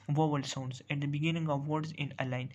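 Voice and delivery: slow, deliberate reading of a definition; teacher dictating a definition slowly. Shown as a demonstration. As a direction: spell the rule out word by word, very slowly. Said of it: "reads definition out slowly".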